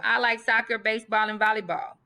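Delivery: lilting list read with little breaks; list with commas. Shown as a demonstration. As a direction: pause at each comma. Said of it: "So example".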